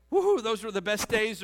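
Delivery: loud, high mock cheer; mock woohoo. Pastor mocking people stuck in their glory days, cheering loudly. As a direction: whoop it up, a bit ironic. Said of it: "the past of saying".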